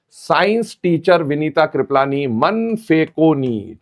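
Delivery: slow, spelled-out chant of the memory line; slow mnemonic recital. Shown as a demonstration. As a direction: recite it slowly so students can copy. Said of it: "कैसे याद करते हैं बेटा?".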